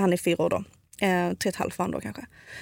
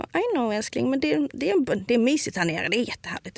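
higher-pitched soothing voice that softens toward the end; imitating a parent's soothing tone; reassuring parent, retold; 4 semitones higher than usual. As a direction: gently coax a frightened small child. Mother reassuring frightened child, retold.

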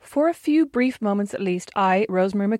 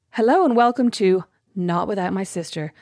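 presenter voice. Pretend. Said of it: "any kind of voice that is not my normal talking voice".

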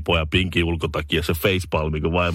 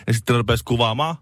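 ordinary talk, nothing marked

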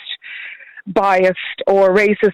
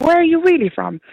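mock loaded question; 10 semitones higher than usual.

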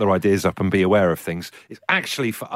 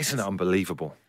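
soft awed whisper; whispered amazement; 4 semitones lower, 7 dB quieter than usual. Real, not acted. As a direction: hush it in wonder. Whispered answer.

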